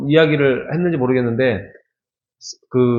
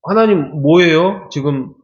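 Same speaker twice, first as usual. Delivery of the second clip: complaining to God. Retold or imitated. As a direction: whine at God like he's been wronged. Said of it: "막 그러면서 불평을 엄청 쏟아내요". (하나님께 불평을 쏟아내듯)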